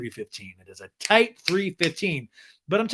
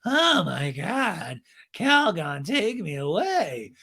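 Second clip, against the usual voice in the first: very slow, drawn-out groaning complaint; mock exasperation; 4 semitones higher, much slower than usual. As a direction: imitate an eye-rolling sufferer, stretching every word. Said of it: "rolls her eyes".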